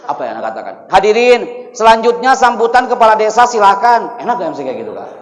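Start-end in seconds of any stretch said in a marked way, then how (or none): 0.9-4.2 loud, higher blurted stage announcement; untrained MC announcement. Acted. Reluctant boy MC calls the village head up, loud and blunt. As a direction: belt out the introduction like an unwilling MC. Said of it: "Ana ngomong dengan menggunakan voice".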